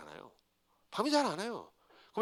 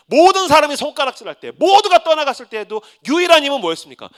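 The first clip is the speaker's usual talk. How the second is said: rising sermon climax; 7 semitones higher, 10 dB louder than usual. Real, not acted. Preaching climax.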